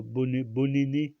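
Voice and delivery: « bonne, bonne année » dit lentement, en appuyant chaque syllabe; détacher « bonne, bonne année » lentement, comme un mot alabama emprunté au français. Shown as a demonstration. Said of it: "pour dire bonne année". (« bonne, bonne année » prononcé à la manière alabama, lent et appuyé)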